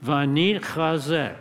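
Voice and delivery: syllables joined, still deliberate; teaching pace, slow but connected. Shown as a demonstration. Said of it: "try it again".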